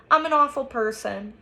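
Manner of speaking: through tears. A narrator's reading. Olivia blaming herself to Justin, understated tearful voice. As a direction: confess with a touch of tears. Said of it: "she says through her tears".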